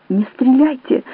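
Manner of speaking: a scared man's plea; frightened cry. A narrator's reading. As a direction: beg him not to shoot. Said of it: "закричал Чезаре".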